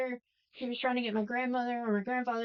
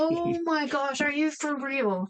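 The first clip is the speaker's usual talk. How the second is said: slow, drawn-out oh my gosh; mock shocked aside; stunned disbelief; 2 semitones higher, 3 dB louder, slower than usual. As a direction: let the disbelief stretch out. Reacting in disbelief.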